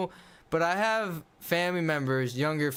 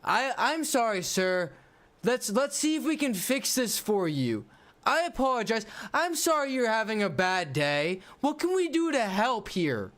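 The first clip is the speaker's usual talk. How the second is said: polite service worker; 5 semitones higher than usual. Retold or imitated. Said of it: "it should be".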